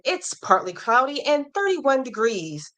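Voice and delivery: lightly put-on weather report; news broadcaster. Host reading a viewer's weather comment, playful hint of news broadcaster. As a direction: read it a little like a broadcaster. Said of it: "like, a news broadcaster".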